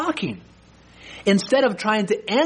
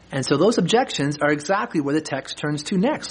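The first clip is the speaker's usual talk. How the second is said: usual speaking voice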